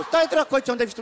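mock-annoyed telling-off; acted irritation. Acted order to stay behind.

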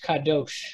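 "kadosh" closing on sh, not ch; sh ending. Shown as a demonstration. Teacher answering a listener's question, sh ending. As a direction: say "kadosh" with k first and sh last. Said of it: "it would be S H".

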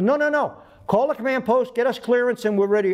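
high-pitched, insistent orders; urgent retold command; impatient correction. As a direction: cut him off and instruct. Pilot urgently corrects rookie, acted.

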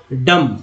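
डम said alone as "dam"; silent B. Shown as a demonstration. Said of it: "डम पढ़ेंगे".

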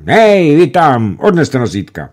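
high, loud shout across the airfield; calling out. A narrator's reading. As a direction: bark the order at distant men. Commander calls to stretcher bearers.

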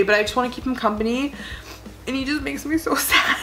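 pushing the words out through crying. Real, not acted. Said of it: "'cause I'm crying".

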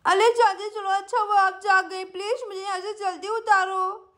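put-on lightly lisped child voice; pleading little girl. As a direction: beg like a small child in trouble. Sweety pleads with aunt. (तुतलाती बच्ची की मिन्नत)

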